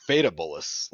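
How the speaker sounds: Faitabolis with a plain T for TH; TH not emphasized. Shown as a demonstration. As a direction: say Faitabolis as "FATE-uh-bolis". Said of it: "didn't even emphasize, like, the T H".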